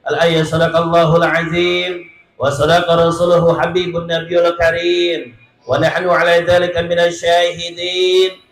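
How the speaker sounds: even, measured chanted prayer; Arabic recitation. Acted. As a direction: recite the opening verses steadily.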